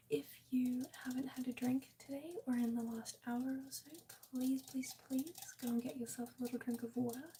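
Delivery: breathy close whisper to chat. Real, not acted. ASMR stream whispering throughout.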